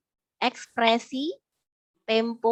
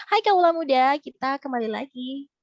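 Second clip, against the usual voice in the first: cheerful ad read; 2 semitones higher, 4 dB louder than usual. Shown as a demonstration. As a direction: greet young listeners like a peppy ad. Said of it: "klien saya tuh minta iklan yang cheers, ceria". (iklan ceria, lebih tinggi dan keras)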